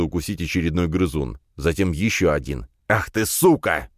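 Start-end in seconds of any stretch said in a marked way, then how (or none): 2.9-3.9 slow, furious swear; a hot, heavy curse; enraged curse. A narrator's reading. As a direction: lash out in rage. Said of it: "Вяземский-младший взбесился".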